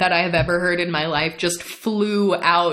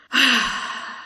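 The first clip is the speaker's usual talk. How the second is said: weary sigh, imitating the doorman; imitated sigh; 5 semitones higher than usual. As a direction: let out an audible sigh. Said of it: "He just sighed".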